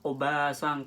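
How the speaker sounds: "oba-san" with the middle a held long; long vowel. Shown as a demonstration. Teacher giving learners an example of a long sound, "oba-san" with a drawn-out a. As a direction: stretch the "ba" in "oba-san" into baa. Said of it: "kan itu panjang".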